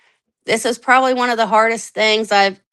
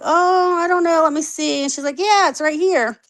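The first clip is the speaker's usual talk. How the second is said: secretary voice; 7 semitones higher than usual. Retold or imitated.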